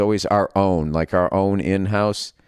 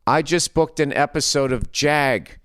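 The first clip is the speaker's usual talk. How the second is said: proud classmate; 6 semitones higher than usual. Retold or imitated. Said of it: "And they".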